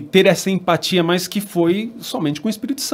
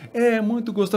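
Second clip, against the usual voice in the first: lightly voiced daughter; 5 semitones higher, 3 dB quieter, faster than usual. Father voices daughter's replies.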